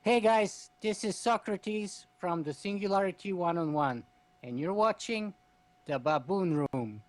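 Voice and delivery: a mock monkey ident, slowing on the last words; hammed-up baboon announcer; lightly voiced monkey reading the show ident. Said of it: "horrible monkey voice".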